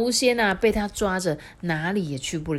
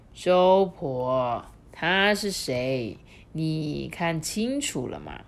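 put-on calm old god; much slower than usual. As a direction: gently make her look. Husband gently questions wife.

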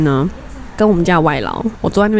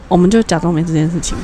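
normal talking voice

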